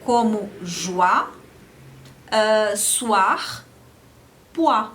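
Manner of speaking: joie, soir, pois with oi as wa; French oi words. Shown as a demonstration. Teacher modeling oi words for the class. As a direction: say oi as wa in each word. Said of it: "O conjunto O I dá o som de O A".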